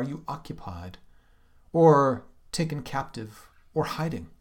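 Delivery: earnest reading of the translated lament; lightly dramatic translation reading; poem reading. Acted. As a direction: read it as her complaint. Reads English translation dramatically.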